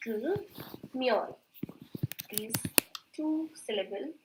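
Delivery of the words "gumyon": "gumyon" slowly, split gu-myon; as it sounds. Shown as a demonstration. Teacher showing how the syllables sound, slow syllable demo. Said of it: "So it sounds like".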